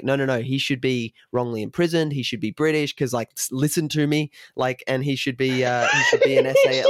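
imitating Connery in a Scottish accent, rising into a squeaky yell; hammed-up Scottish Connery growing excited; Sean Connery impression. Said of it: "Connery being like".

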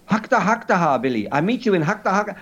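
insistent mock-French accent; caricature French accent. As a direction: repeat it briskly in a put-on French accent. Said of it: "in a caricature French accent".

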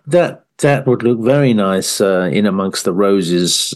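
low, slow, genteel gardener voice; mock Monty Don. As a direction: savour each word like a TV gardener.

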